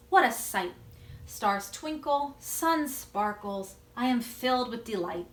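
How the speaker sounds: slow, savoring poem recital; teacher reading her own poem to the class, slow and savoring. Acted. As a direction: read it slowly, letting each image land. Reads her poem aloud.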